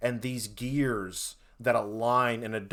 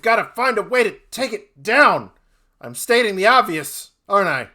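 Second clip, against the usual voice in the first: lightly voiced wizard; 8 semitones higher, 12 dB louder, faster than usual. NPC speaks to party.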